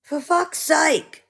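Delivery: fed-up groan of a phrase; exasperated. Real, not acted. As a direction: let the frustration spill out slowly. Exasperated outburst.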